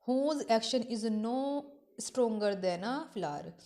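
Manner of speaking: slow, drawn-out reading of verse; slow poem recitation. Acted. Teacher reciting Shakespeare to her class, slow and deliberate. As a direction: recite each line slowly, savouring it.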